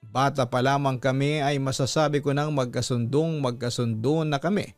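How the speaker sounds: usual speaking voice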